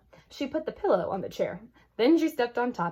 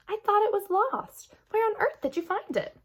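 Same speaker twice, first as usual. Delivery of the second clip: amazed father; 13 semitones higher than usual. A narrator's reading.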